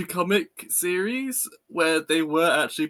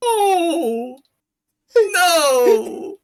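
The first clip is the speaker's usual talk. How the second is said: high, loud wail through laughter; laughing dismay; 7 dB louder than usual. Real, not acted. Friend appalled at the edging line, laughing wail. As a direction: wail it out, cracking up.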